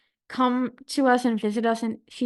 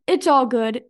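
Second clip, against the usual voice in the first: imitated brisk dismissal, a bit louder; mildly rude brush-off; 5 dB louder than usual. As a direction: brush the question off, lightly mimicked. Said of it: "like, really rude".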